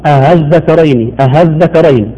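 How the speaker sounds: أها الذكرين with a strong h before the word; overdone easing. Shown as a demonstration. Demonstrating the common mistake of overdoing tasheel. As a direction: say أها الذكرين, hamza pushed all the way to ha. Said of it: "ويبالغ في تسهيل الهمزة".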